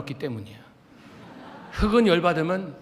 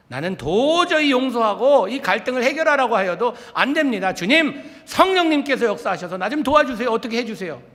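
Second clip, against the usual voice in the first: loud, high, desperate cry to God; desperate pleading prayer; 7 semitones higher, 7 dB louder than usual. Shown as a demonstration. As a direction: plead loudly as if at the end of your strength. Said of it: "간구해야 합니다".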